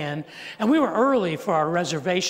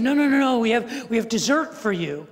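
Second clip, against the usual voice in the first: imitating staff cutting in, higher and louder; eager protest, starting high and easing off; eager insistence; 5 semitones higher, 4 dB louder than usual. Waiters stop guests leaving before dessert, eagerly insistent.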